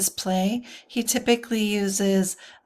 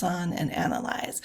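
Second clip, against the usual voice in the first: whispered; 4 semitones lower, 6 dB quieter than usual. Real, not acted. Trailing into whisper.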